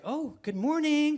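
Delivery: high, drawn-out cheery greeting; chipper wife impression. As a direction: imitate a wife far too fresh in the morning. Fresh wife greets hungover husband.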